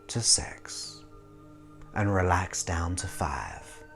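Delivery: soft whispered countdown; whispering. Acted. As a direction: whisper the numbers to deepen relaxation. Hypnotist deepening the trance.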